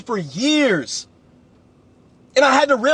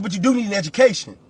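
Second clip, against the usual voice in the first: "do" leaned on, brisk pace; "you do need" with "do" emphasized; stress on do; 3 semitones lower, faster than usual. Shown as a demonstration. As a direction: hit the word "do" hard. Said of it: "You don't need college".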